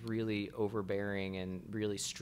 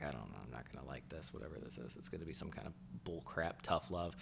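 much lower and softer, fast under the breath; dreading inner mutter; 5 semitones lower, 11 dB quieter, faster than usual. Retold or imitated. Client to himself as the therapist starts, muttered dread. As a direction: grumble it to yourself, braced for bad news.

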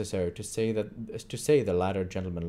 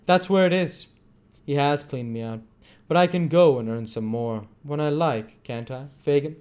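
raised, emphatic boast; triumphant; 7 semitones higher, 7 dB louder than usual. A narrator's reading. Tom boasts to Fagin after losing his money, triumphant. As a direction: crow over being proved right.

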